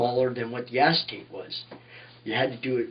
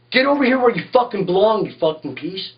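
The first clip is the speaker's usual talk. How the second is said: higher, louder command that drops off at the end; angry order; 6 semitones higher, 3 dB louder than usual. Retold or imitated. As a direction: order him back where he belongs. George ordering him back.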